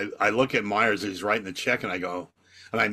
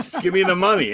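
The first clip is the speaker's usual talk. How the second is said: insistent demand; 8 semitones higher, 5 dB louder, faster than usual. Retold or imitated. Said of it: "And I'm going".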